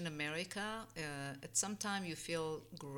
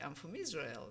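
proud declaration, pitch swelling on Israel. Retold or imitated. Immigrant recalling answering where she's from, proud. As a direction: state your origin with understated pride. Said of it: "I would say with pride".

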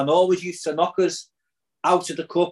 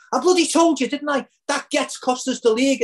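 imitating a furious dad, pitched higher; mock rant at the goal; dad's outburst; 6 semitones higher than usual. Fan imitating his dad cursing the scorer, mock angry. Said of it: "my dad says to me".

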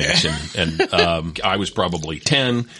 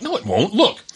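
put-on reassuring kid; 12 semitones higher than usual. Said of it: "We're like".

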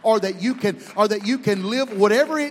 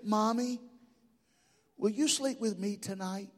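put-on scared little boy; 9 dB quieter than usual. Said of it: "with a tremor in his voice".

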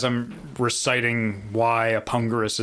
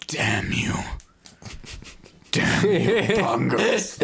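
Kirk yelling at Khan; 4 semitones higher, slower than usual. Pretend. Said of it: "like Kirk yelling at Khan".

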